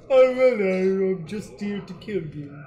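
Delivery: cheerfully polite killer; simple nice voice. Pretend. Friend voicing a simple nice orc assassin. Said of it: "simple and kinda nice".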